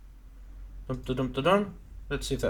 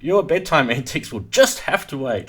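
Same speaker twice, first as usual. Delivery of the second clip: laughing slightly on the punchline; trying not to smile; 3 dB louder than usual. Real, not acted. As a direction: read through a chuckle. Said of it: "I'm supposed to keep a straight face here".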